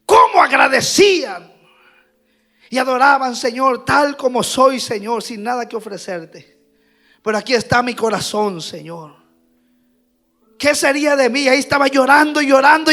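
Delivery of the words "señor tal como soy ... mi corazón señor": soft, much quieter imitated prayer to God; humble prayer. Pastor voicing new believers' humble prayer, soft. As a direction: breathe it like a broken convert praying.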